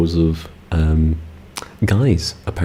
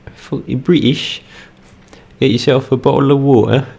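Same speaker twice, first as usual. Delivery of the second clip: higher, put-on British accent mocking the joke; 8 semitones higher than usual. Streamer mocking the British-water joke in a British accent. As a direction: ham up a British accent as a tease. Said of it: "you don't actually talk like that".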